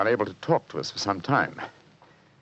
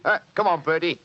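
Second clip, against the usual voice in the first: high Cockney workman voice, louder; Cockney disguise; 7 semitones higher, 5 dB louder than usual. Acted. Disguised Holmes fibs to the landlady, Cockney accent. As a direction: bluff the landlady as a Cockney council man. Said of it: "My Cockney accent".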